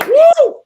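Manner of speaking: loud, high cheer; excited whoop. Real, not acted. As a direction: whoop it out in celebration. Cheering for China's tent.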